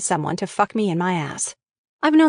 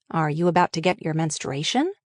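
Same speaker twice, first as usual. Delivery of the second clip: calm question; 3 semitones lower than usual. Retold or imitated. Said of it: "Tony calmly asked".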